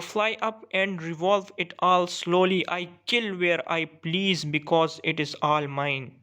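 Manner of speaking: slow, measured poetry reading; poem recitation. Acted. Teacher reading a hawk's monologue to students, measured recitation. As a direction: read the verse out slowly, phrase by phrase.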